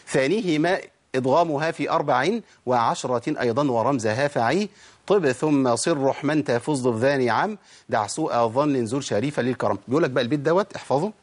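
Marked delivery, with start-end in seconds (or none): 0.1-9.8 slow, measured chanted verse; verse recitation. Shown as a demonstration. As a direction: recite the teaching poem with drawn-out vowels. الشيخ بيقول.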